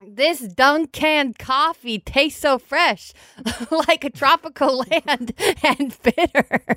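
cracking up mid-ad; laughing through it. Acted. Reads an ad line, laughing.

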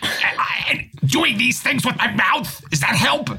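high, mouth-wide shouting; yelling. Pretend. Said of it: "if I start yelling at you".

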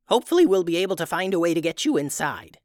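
quick, lightly voiced old witch; a hint of a hopeful old woman. Tubes reassures Eugene.

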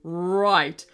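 yelling king. Acted. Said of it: "yelled King Mallard".

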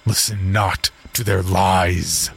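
slow, firm warning; stern command. Acted. Reverend warning the father not to listen, slow stern command. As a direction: lay down the warning slowly. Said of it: "the Reverend commanded".

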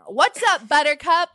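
playful high greeting; cutesy greeting. Shown as a demonstration. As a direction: toss off a cute hello. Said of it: "I don't think I should say Buttercup".

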